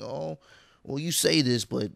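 mock passive-aggressive, lifted pitch. Host shows guest's critic using air quotes, mock passive-aggressive. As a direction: imitate someone putting air quotes round it. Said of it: "you give it a little bit of a tone".

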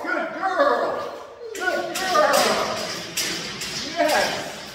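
high-pitched sing-song praise; squeaky praising a dog. Real, not acted.

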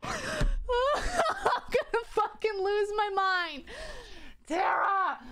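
high, slow, laugh-crying; laughing hysterically. Real, not acted. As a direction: lose it, laughing through tears. Laughing near tears.

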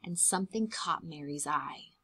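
hushed whisper of suspense. Acted. Building suspense for the children in a hushed whisper. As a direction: lean in and whisper the secret. Suspense before bones found.

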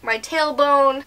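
wincing after sitting on a shoe; in pain. Real, not acted. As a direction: say it through a sudden sting. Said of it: "My butt hurts now".

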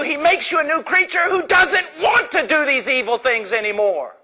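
fiery preaching. Acted. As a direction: preach it at full force. Preaching at full force.

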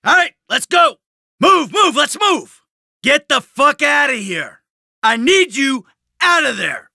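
high, forceful shouted orders; aggressive shouting. Acted. Carjacker forcing the driver out, aggressive shouting. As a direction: bark them out of the car.

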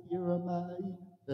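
very soft, hushed preaching; hushed, whispering God. Acted. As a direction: drop right down as if God speaks privately. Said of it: "God started whispering to him".

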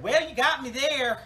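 loud, high-pitched retort; mock concession. Newcomer answers the hippie's jab, loud high mock concession.

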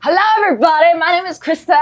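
high, bouncy, laughing intro; jumpy frog energy. Pretend. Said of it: "be jumpy like a frog".

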